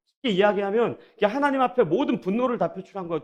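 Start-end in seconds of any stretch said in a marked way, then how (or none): none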